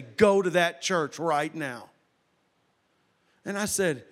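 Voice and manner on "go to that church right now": slow, deliberate command, lightly voiced; voice from nowhere. A voice in the man's car, slow retold command. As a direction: hand down a measured order as a mysterious voice. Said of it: "I heard a voice in my car say".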